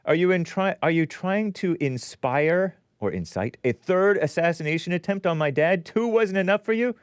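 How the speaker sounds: indignant quote, pitch climbing; reading Don Junior's post. Retold or imitated. Host reading Don Junior's angry post, indignant. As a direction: read it with rising outrage. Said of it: "here it is".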